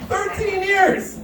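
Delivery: stunned, drawn-out exclamation; shocked disbelief. Real, not acted. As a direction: gasp it out in disbelief. Shocked rereading of label.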